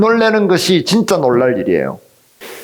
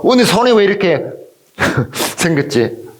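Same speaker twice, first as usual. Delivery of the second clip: higher-pitched, acted astonishment; put-on wonder, pitched up; mock surprise; 5 semitones higher than usual. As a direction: act startled by your own body. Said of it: "놀란 적 있어요".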